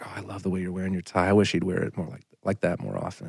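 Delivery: quiet, quick retold admiration; a hint of a charmed wife; soft mock wife. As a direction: gush about the tie softly. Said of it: "she's like".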